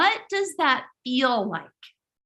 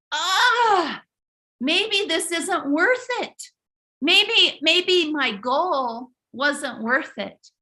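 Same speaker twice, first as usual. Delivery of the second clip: cry-tinged, slow despairing doubt; mild retold despair over the lost glasses; discouraged; 3 semitones higher, slower than usual. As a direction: voice the moment you want to give up. Sunglasses lost, inner despair.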